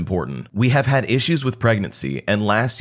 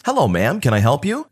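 customer service voice; 4 semitones higher than usual. Retold or imitated. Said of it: "in a very customer service type voice".

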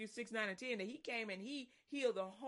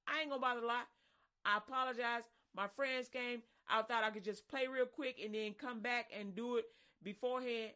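pleading apology; 5 dB louder than usual. Retold or imitated. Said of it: "Ask her for mercy".

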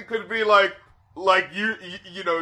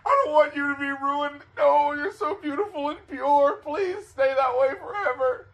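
lightly voiced tearful plea, higher; mock tearful plea; 6 semitones higher than usual. About kids making him cry, a mock-weepy plea. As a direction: plead like an adult mourning lost innocence. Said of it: "there's something about just like".

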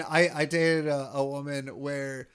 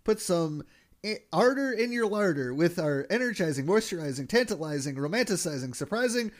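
chirpy trade show pitch; 2 semitones higher than usual. Retold or imitated. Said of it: "he goes".

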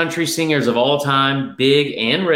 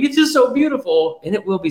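mock crying; 9 semitones higher than usual. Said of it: "I'm gonna start crying".

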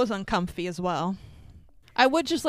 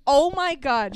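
slightly raised, louder shocked exclamation; retold shock; 4 semitones higher, 4 dB louder than usual. Telling how they reacted to a friend in the theater, retold shock. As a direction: relive the shock, a bit hammed-up. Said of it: "I was in shock".

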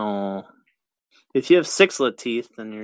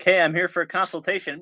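higher-pitched mock-innocent patient; 8 semitones higher than usual. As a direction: act out an unsuspecting patient checking in. Acts out his arrival before punch.

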